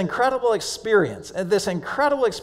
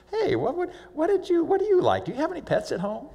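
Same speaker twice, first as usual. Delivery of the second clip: much higher, soft friendly questions; gentle Jesus voice; 11 semitones higher, 3 dB quieter than usual. Acted. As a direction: chat kindly with a small child. Jesus chatting with the boy.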